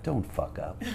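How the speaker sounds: softly imitated warning; quiet mock caution after praise; Sharon. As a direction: drop the volume for the sting. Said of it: "next night, Sharon goes".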